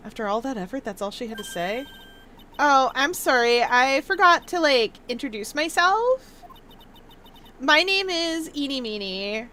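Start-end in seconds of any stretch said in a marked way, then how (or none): 2.6-9.5 put-on Valley Girl accent. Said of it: "do a Valley Girl accent".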